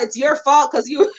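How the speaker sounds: imitating her blaming the chat through laughter; giggling parody of a streamer's excuse; teasing a friend, mock accusing while laughing; laughing mock blame. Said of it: "you blame people in the chat".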